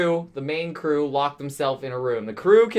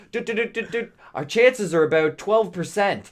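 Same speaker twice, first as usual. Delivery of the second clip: robot voice; 3 semitones higher than usual. Retold or imitated. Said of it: "the sex robot goes".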